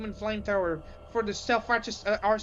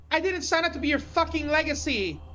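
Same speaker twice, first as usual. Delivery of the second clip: defiant outburst; 6 semitones higher than usual. Acted. Captive defies the villain.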